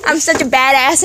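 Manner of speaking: lightly mimicked smug brag with fake tittering; mock her pleased little giggle; mocking smug girl. Kid imitating the girl proud of dropping trash, smug giggle. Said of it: "she's, like, smiling".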